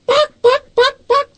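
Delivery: high, squeaky mock dog barks; mock barking. Host teasing the guest for ducking the question, squeaky mock barking. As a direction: yap it out to tease him.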